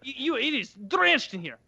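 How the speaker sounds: the Bosnian repairman upset at the damage; agitated Eastern European accent. Retold or imitated. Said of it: "that Eastern European accent".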